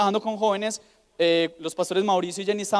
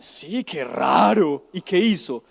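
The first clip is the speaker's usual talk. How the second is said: mock surprise; 2 semitones lower, 3 dB louder, much slower than usual. Mother feigns surprise.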